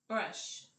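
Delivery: TOOTH very soft, then BRUSH out loud. Shown as a demonstration. Teacher splitting a compound word, TOOTH softly, BRUSH loudly. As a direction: whisper TOOTH, pause, punch out BRUSH. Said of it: "very softly say".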